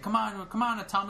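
put-on eager kid. Kid goading the robot into play, imitated eager high voice.

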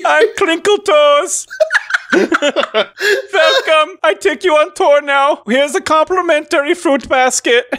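high, slow, giggly kobold voice; a kobold guide introducing himself with a grin; kobold tour guide. Acted. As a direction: kobold guide Crinkle Toes welcoming players. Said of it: "They all talk like that".

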